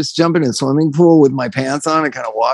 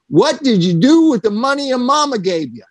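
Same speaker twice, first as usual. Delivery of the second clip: higher mock clerk voice; store clerk; 7 semitones higher than usual. Clerk asks the singer a third time, higher. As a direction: ask it again like the patient clerk. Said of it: "the guy said".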